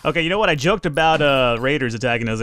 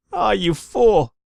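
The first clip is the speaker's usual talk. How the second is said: exasperated shout; 6 semitones higher, much slower than usual. Real, not acted. Colonist burning to death.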